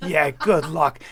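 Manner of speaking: mocking ha ha, laughing through the words; laughing at him. Wife laughing at her husband's threats, mocking. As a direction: laugh him off as you dare him. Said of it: "she's laughing at me going".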